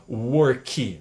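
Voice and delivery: "work" said as "uor-ki"; Brazilian-style "work" with final "ki"; "ki" ending. Shown as a demonstration. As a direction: add a full "ki" syllable to the end of "work". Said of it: "não é ki no final".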